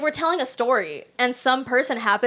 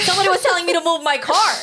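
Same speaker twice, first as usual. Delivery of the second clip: quick, higher mock Valley Girl; a hint of Valley Girl; Valley Girl accent; 5 semitones higher, faster than usual. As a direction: retell it in light Valley Girl style. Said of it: "With a Valley Girl accent".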